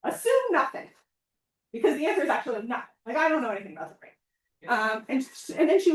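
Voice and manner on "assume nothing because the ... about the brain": laughing self-mockery. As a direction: rush it out through a laugh. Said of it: "And I would say".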